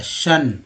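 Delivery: सन said like "sun", no "o" sound. Shown as a demonstration. Teacher explaining that O changes its sound, सन as "sun". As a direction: say सन with a short "uh" vowel. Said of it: "आ बोला जा रहा है".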